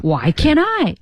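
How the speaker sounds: casual everyday question; everyday feel. Shown as a demonstration. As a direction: toss it off like real life. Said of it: "就很生活".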